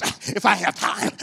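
slow, put-on grudging voice; huffy reply. Secretary answers invitation to assembly, imitated with slow attitude. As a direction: drag it out with mock attitude. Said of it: "She goes".

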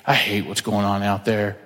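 lightly voiced whining churchgoer; mock whiny Christian. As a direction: parody a lazy believer griping. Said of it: "we have the nerve to go".

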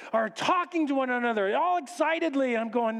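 usual speaking voice

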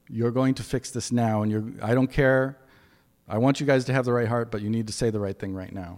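dad voice. Retold or imitated. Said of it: "the dad voice comes out".

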